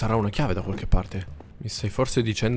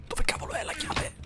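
scared squeak; 3 dB quieter than usual. Real, not acted. Scared search for the key.

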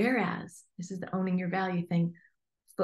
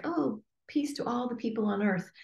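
mock vague prayer; 4 semitones higher, 4 dB quieter than usual. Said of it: "And I don't mean, like".

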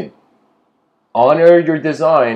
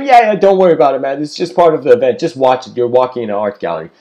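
louder easygoing dude voice; laid-back, shrugging; 4 dB louder, faster than usual. Acted. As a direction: wave off the worry casually. Logos voiced in parable.

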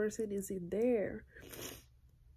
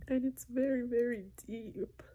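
tearful; 3 semitones higher than usual. Real, not acted. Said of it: "I don't know why I'm crying".

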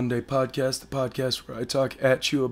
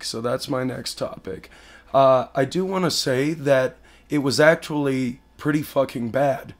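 hoarse sick voice. Real, not acted. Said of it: "I sound like shit right now".

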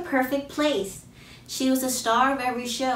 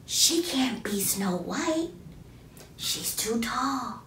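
slow, soft, unkind schoolyard whisper; mean whispering kids; 2 semitones higher, 4 dB quieter, slower than usual. A narrator's reading. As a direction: whisper behind her back. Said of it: "the other kids whispering".

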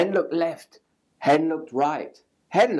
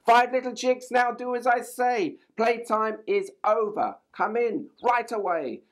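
higher, calling mother hen; hen calling chicks; 8 semitones higher than usual. A narrator's reading. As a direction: call them home like a mother hen. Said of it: "clucked Hen".

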